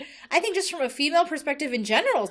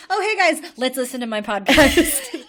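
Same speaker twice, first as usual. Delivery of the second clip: mock podcast host; 5 dB louder than usual. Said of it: "You're like".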